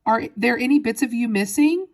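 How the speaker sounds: high, anxious questioning; worried cry. A narrator's reading. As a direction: fret loudly over your child. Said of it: "cried Missus Teavee".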